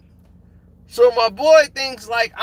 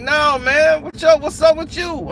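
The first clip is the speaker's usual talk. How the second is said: mock challenge; 5 semitones higher than usual. Armed dude challenges them.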